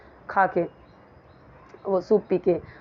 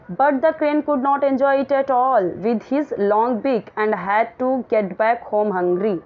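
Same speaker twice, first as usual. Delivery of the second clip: slow, deliberate reading of the English text; measured classroom read-aloud; slow story reading; 2 semitones higher, much slower than usual. Acted. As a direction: read each word out slowly for the class. Reads story text slowly aloud.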